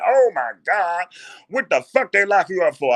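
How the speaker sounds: high, loud, slowed shock; shocked girlfriend voice. Acted. Girlfriend hearing he's in jail, loud shocked voice. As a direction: gasp it out in her heavy voice. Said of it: "she got a heavy voice".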